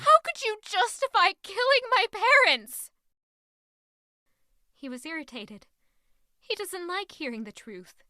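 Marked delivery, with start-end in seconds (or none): 0.0-2.9 sharp, loud demand for answers; furious, accusing question; angry accusation. Acted. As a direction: confront him hard. Accusing the killer of her parents.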